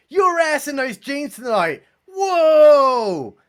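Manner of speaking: mock a friend hyping her up; hyped-up girlfriend. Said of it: "they'll text her saying".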